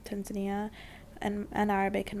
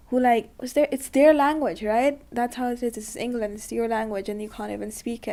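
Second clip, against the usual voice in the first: frustrated outburst; 6 dB louder than usual. Real, not acted. Frustrated rant about neighbours' English.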